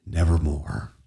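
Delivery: low croaked nevermore; croaking raven. Acted. Raven answers the brooding speaker, croaking. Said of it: "meant in croaking".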